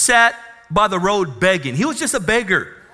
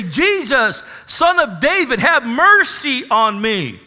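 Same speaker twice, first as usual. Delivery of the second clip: higher, slow pleading cry for mercy; a moderate acted cry, higher and drawn out; 5 semitones higher, 3 dB louder than usual. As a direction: beg across the crowd for mercy. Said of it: "he began to cry out and say".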